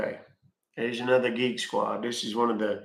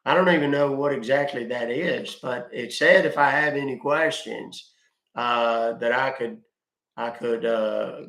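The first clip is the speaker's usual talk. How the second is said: slow, louder, hesitant caller persona full of uh; slow confused caller; 4 dB louder than usual. Acted. Scam baiter to fake support agent, slow muddled caller voice. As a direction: play a muddled customer who got a bill, slowly and a bit louder.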